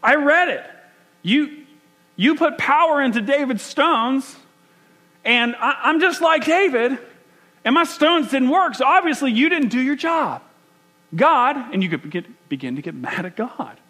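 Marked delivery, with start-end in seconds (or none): 0.0-11.6 high, loud, frustrated cry at God; mock-furious outburst, pitched up high; screaming at God. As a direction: rail at God like he failed you. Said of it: "I start to scream at God".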